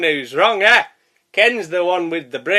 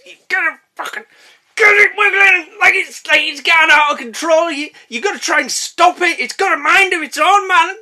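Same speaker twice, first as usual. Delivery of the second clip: high loud excited rant; 10 semitones higher, 4 dB louder than usual. Acted. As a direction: rave about it high and loud.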